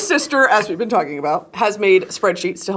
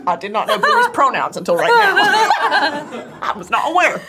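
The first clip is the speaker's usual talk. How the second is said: laughing admission; 9 semitones higher than usual. Real, not acted. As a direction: confess it while cracking up. Laughing at own ignorance.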